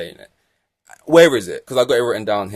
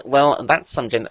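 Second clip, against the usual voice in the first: slow, drawn-out smug engineer voice; mock pit wall engineer; 3 semitones higher, 4 dB louder, slower than usual. Vlogger mocking the race engineer's radio, slow and smug. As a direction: lay on the smug British understatement. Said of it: "I just hate this ... way these radio, like, pit wall people speak".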